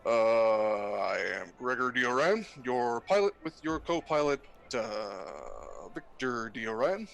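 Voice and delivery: pilot announcement over intercom; captain on the PA, measured and calm; pilot cockpit headset. Acted. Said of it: "sounds like a legit pilot".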